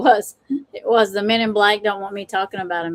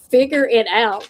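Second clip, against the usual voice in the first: restrained fussing at oneself, usual pitch; retold self-scolding. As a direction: retell a mild scolding of yourself. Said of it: "I was fussing at myself".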